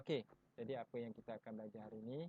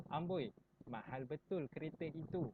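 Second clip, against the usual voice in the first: amazed; 3 semitones higher than usual. Shown as a demonstration. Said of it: "perasaan hairan ataupun kagum".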